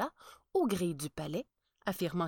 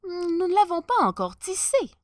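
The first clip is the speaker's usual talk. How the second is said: higher, louder smooth swindler; cunning tailor explaining; sly tailor; 11 semitones higher, 9 dB louder than usual. Acted. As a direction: sell the lie with charm. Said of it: "dit l'un des tailleurs".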